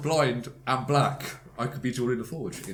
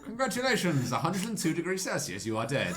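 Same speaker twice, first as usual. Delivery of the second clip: mock congratulations; 5 semitones higher than usual. Acting doctor congratulating dead patient.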